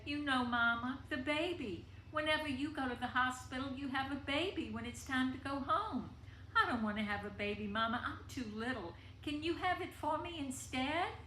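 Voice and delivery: put-on a teary five-year-old begging her mama; pleading little girl. Child pleading with mother, sniffling.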